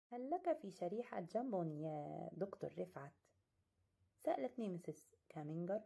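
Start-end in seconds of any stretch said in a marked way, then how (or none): 0.1-3.1 gentle. Acted. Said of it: "في رقة".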